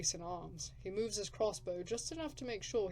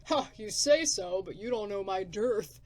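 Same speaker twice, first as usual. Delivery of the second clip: loud, rough wasteland drifter; gruff drifter; 7 dB louder than usual. Acted. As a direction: bark it like a grumpy survivor.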